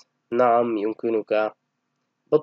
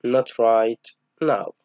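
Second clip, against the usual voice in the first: very slow, drawn-out refusal; slow model reading; much slower than usual. Shown as a demonstration. Teacher modelling a polite refusal, slow. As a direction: stretch each word for pupils. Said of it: "Then, sorry".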